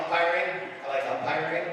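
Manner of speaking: normal talking voice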